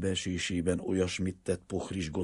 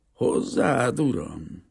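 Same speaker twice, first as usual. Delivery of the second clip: louder, higher burst of astonishment; stunned stammer; 8 semitones higher, 9 dB louder, much slower than usual. A narrator's reading. Greek father stunned by the banker's proposal, astonished stammer. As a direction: blurt it out, taken aback. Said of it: "dadogta elképedve".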